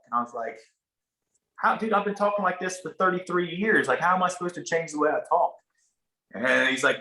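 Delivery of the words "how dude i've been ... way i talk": a touch of exasperation, pitch lifted; mild retold protest. Actor told to change how he talks, mildly exasperated protest. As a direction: plead your case in mild disbelief.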